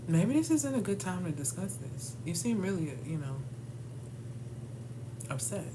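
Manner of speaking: a hammed-up soothing excuse to avoid arguing; mock calm deflecting. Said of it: "My favorite one".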